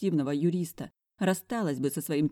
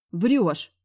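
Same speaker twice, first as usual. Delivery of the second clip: suspicious; 3 semitones higher, 7 dB louder than usual. Acted. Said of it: "прищурилась я".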